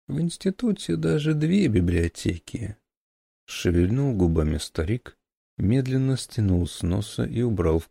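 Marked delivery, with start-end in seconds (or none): 0.1-2.8 put-on very old man.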